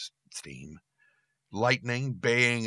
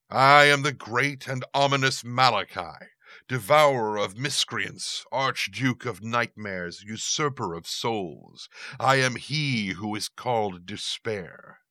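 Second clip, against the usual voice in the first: booming demon lord; 2 semitones higher, 4 dB louder than usual. Acted. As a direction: boom out every title like thunder. Demon proclaims his grand title.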